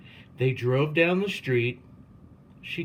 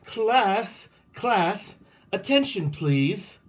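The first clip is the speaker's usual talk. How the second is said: calling for attention; 8 semitones higher, slower than usual. A narrator's reading. Principal calling a noisy class to attention. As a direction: call the room to attention.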